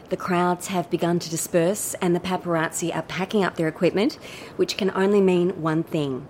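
bubbly entertainment reporter patter; chirpy red carpet presenter; gushing red carpet chatter. Acted.

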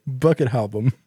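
repeating it as a burped phrase; burping the words. Retold or imitated. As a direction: mimic the belched phrase. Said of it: "Instead of saying Buckethead album".

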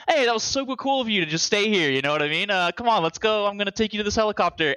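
a hint of a pally bad guy; casual friendly villain. Voicing returning villain's friendly offer.

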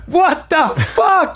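slow, high-pitched mock disbelief; retold shock. Hungry friend handed a plate, imitated shock.

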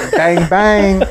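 cocky kid celebrating a win, hammed-up; mock triumphant bang bang. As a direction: play it like a cocky kid showing off. Mock triumph after spelling.

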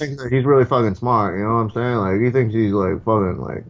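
rambling fighter-bro impression; Diaz brothers. Fighter brothers talking over the host, rambling impression. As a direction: swap boasts as two stoner fighters. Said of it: "the Diaz brothers".

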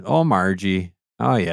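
a light mock Minnesota Fargo accent; lightly imitating a Fargo movie accent. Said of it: "It's Fargo".

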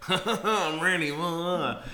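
high, loud, slow laughing yell; eager excited yell. Retold or imitated. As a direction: blurt it out like an over-eager husband. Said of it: "he's just at home going".

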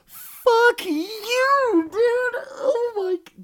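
high, loud cracked-up yell; high-pitched, indignant outburst; outraged retort. Retold or imitated. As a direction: squeal it in appalled disbelief. Outraged retort to the host's pun.

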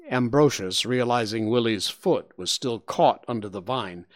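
ordinary delivery

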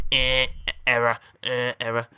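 slow robotic error beep. Acted. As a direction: drone it like a glitching machine. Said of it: "It goes".

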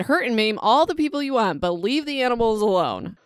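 indignant rant about the dog; mock outrage. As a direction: defend the animals with fierce mock anger. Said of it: "I said".

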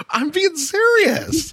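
high, slow, drawn out through laughter; laughing protest. Real, not acted. Host protesting to a teasing co-host, laughing. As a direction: insist on it while cracking up.

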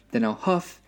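mild wolf roar. A narrator's reading. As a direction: build up the wolf's threat, peaking at the end. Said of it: "roared the wolf".

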